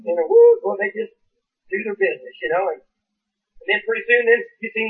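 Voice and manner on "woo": high, loud "woo"; mock whoop. Preacher mimicking worshippers getting up to dance, mock whoop. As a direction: imitate an excited church whoop.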